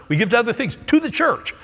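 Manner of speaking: rising to a preacher's peak; emphatic preaching. Real, not acted. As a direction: drive the point home. Preaching about giving passionately.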